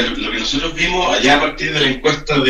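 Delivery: speaking too far from the microphone; far from mic. Real, not acted. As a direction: voice off-mic and distant. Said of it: "Acércate al micrófono, te alejaste un poquito". (lejos del micrófono)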